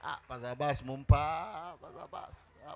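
whispered, repeated calling of Pastor Abbas; hushed calling. Retold or imitated. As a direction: call his name under your breath. Pastor calls the man aside quietly.

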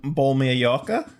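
a nervous, laughing try at Australian; bad Australian accent, half laughing; attempted Australian accent. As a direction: player pushed by Australians, tentative Australian accent. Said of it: "That was actually pretty good".

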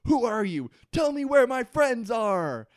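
yelling angrily at the captor; retold scream. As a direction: shout it in a mock rage. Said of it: "he screams".

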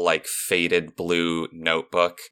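ordinary talk, nothing marked

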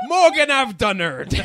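slow, high British-accented line, ends on a laugh. Shown as a demonstration. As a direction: say it as a proud Brit. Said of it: "to get into a British accent".

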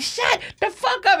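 very high, exasperated mock command; imitating irritated officer. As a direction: act out a cop losing patience. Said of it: "officer was so irritated with me".

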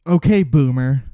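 dismissive okay boomer jab; teasing a friend with a dismissive jab; mocking. Real, not acted. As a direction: sneer it as a meme. Mocking meme retort.

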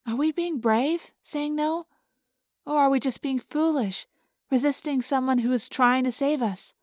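lightly voiced, quiet and questioning; gentle, hesitant Cassie. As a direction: softly put a doubt to the group. Cassie speaks in the story.

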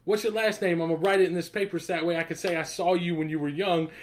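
put-on half-playful stranger hailing a child; imitating Fishburne calling out. Chess hustler calls to a departing kid, lightly voiced. Fishburne asks kid's name.

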